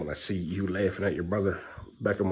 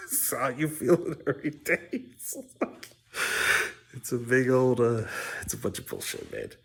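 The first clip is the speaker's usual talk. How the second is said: higher laughing therapist voice; mock therapist; 6 semitones higher than usual. Dad mocking therapy with a laughing higher voice. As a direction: poke fun at a therapist, laughing.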